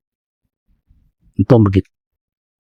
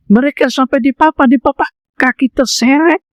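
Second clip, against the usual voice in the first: emphatic image; 7 semitones higher than usual. Acted. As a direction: paint them being carried in. Dramatising companions carrying him.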